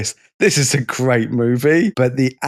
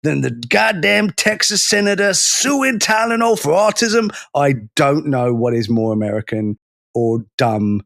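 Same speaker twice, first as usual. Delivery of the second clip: indignant Texan parody, pitched up; hammed-up Texan accent; 5 semitones higher than usual. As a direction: put on a big Texas accent. Mock American outrage, quoted.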